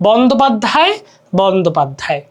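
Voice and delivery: বন্দ্যোপাধ্যায় as bon-do-pad-dhay; বন্দ্যোপাধ্যায় with the ya-phala unspoken; silent ya-phala. Shown as a demonstration. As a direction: say বন্দ্যোপাধ্যায় without a y glide after "d". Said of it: "জফলার কিন্তু এখানে উচ্চারণ হচ্ছে না".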